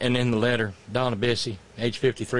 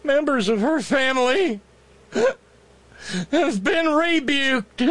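pleading lawyer; 4 semitones higher than usual. Acted. Mocking lawyer's plea to judge.

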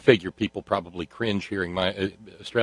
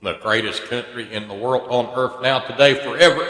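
mock patriotic crescendo; 5 semitones higher, 10 dB louder than usual. Mock patriotic flourish building up.

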